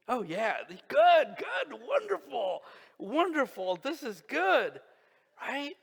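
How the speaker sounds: high, loud delighted cheering; excited praise. Real, not acted. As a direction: cheer them on with real delight. Preacher cheering congregation's answer.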